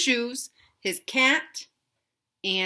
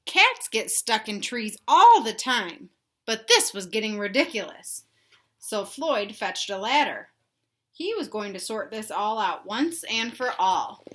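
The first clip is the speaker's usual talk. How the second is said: put-on reading to children; 4 dB louder than usual. A narrator's reading. Teacher reading Stuck to kids, expressive storybook voice. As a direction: read it out big for the little ones. Teacher reads picture book aloud.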